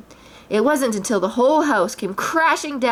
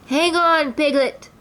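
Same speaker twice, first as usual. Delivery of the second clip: raised Pooh voice calling upward; 7 semitones higher, slower than usual. A narrator's reading. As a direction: Pooh calls up to Piglet from below. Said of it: "cried Pooh from down below".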